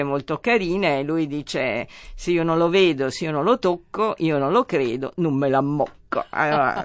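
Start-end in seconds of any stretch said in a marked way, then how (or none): 2.2-6.0 put-on quoting a Neapolitan proverb in a light Neapolitan accent; a touch of Neapolitan dialect, slightly raised. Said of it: "scusate il mio napoletano".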